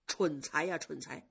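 a sigh, then a reproachful scolding; exasperated young master scolding. Acted. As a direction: chide the careless maid with a weary sigh. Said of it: "宝玉就叹着一口气说".

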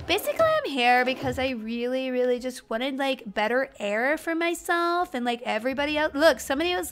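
put-on ditzy valley girl, lots of likes. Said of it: "Valley Girl impression?".

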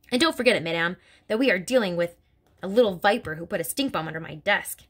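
lightly voiced stern headmistress; a hint of a bullying headmistress, scornful; Trunchbull voice. Headmistress sneering about little girls to Miss Honey, scornful.

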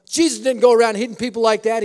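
loud, outraged whine; indignant complaint. Retold or imitated. Knocked-down man protests to Jack, loud and indignant. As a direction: protest from the floor.

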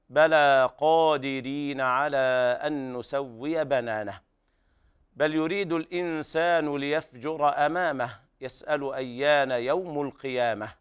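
measured tajweed chant; melodic, careful Quranic reading; Quran recitation. Shown as a demonstration. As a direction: recite the verses with drawn-out vowels.

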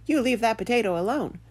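imitating a bossy little dog; quoted dog. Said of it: "my dog stopped chewing on his bone and said".

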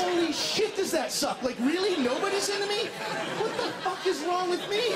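high, loud comic outrage; mock indignation. Comedian ignored in the gay shower, mock indignant. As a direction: cry out in hammed-up wounded disbelief.

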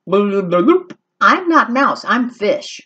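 slow, drawn-out fish voice; a hint of a dreamy fish. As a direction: let each word float out lazily. Fish answers Max.

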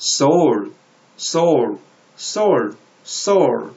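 soul said singly, tense s and falling tone; model pronunciation. Shown as a demonstration. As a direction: model soul for learners, each one set apart. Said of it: "이렇게 하시면 되고요".

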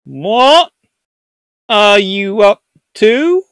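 high, drawn-out rising question; acted suspicious French. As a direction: ask slowly with mock suspicion. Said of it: "And the French are going".

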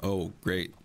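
weary, deadpan eye-roll; eye-rolling sarcasm. Retold or imitated. Bored viewer at a repeated joke, eye-rolling sarcasm. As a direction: say it fed up, rolling your eyes. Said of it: "roll your eyes and go".

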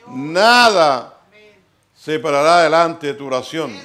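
loud, drawn-out preaching phrases; preaching proclamation. Real, not acted. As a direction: proclaim the promise forcefully to the congregation. Proclama la promesa predicando. (proclamando la promesa con voz fuerte)

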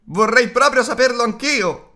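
high, loud and out of breath; panting. A narrator's reading. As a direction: gasp it out while running. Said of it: "avanzava ansimando e inciampando".

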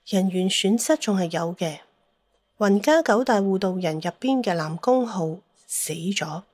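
plain reading voice

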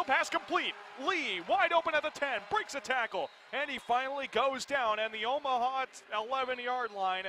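excited call. Real, not acted. Play-by-play big gain.

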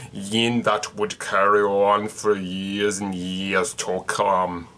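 slow, grand mock-epic read; dramatic storytelling. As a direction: read it like an ancient legend, slowly. Reads a mock-epic legend.

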